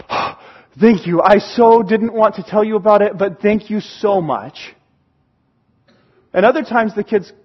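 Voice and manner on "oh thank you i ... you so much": gasp, then pour out thanks; mild acted relief, slowing on the final thanks; relieved kid. Kid thanking a forgiving parent, relieved. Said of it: "sometimes the kid go".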